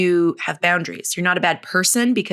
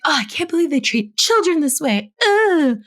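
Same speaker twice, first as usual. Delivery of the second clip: gossipy mom; 10 semitones higher, 3 dB louder than usual. Retold or imitated. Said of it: "being like".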